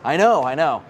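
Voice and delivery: breathless from talking fast; out of breath. Real, not acted. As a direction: talk while short of breath. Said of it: "You're almost out of breath".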